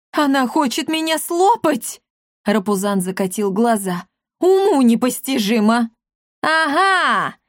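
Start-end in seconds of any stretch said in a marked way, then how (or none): 0.1-2.0 high, scared cat voice; panicked cat. Acted. Cat panics that the old lady will eat him, high. 4.4-5.9 loud indignant cry; outraged cat. Acted. Cat rolls his eyes in outrage, loud. 6.4-7.4 triumphant shout. A narrator's reading. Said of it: "закричал Акаций".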